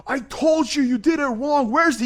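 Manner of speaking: high-pitched mock scolding; imitating angry customer. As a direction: act out a customer's indignant accusation. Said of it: "he's just cussing me out".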